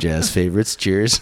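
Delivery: low late night DJ voice; warm announcer. Shown as a demonstration. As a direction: croon it like a late night jazz DJ. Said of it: "This is my podcast voice".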